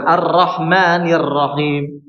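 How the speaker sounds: slow recitation with a thin "ra" in "Ar-Rahmanir"; teacher showing a wrong reading. Shown as a demonstration. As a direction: demonstrate the error: thin the ra.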